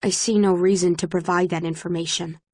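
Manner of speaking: mildly mocking copy of a cold official; a touch of deadpan imitation; flat, factual mimicry. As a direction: echo her flat tone back at her. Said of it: "I make my voice flat and factual like hers".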